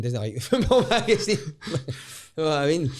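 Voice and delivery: high-pitched, breaking into laughter; laughing. Real, not acted. Retelling his brother's complaint about the football magazine, laughing through it. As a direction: crack up while delivering the punchline.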